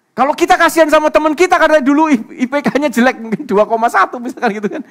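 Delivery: loud, high-pitched preacher's proclamation, easing towards the end; full-force preaching. Real, not acted. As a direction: drive the point home at a shout.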